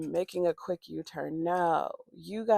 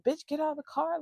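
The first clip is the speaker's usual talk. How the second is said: high-pitched mock threat; retold high-voiced demand; imitating threatening ex; 9 semitones higher, faster than usual. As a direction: mimic an angry woman's challenge, pitched up.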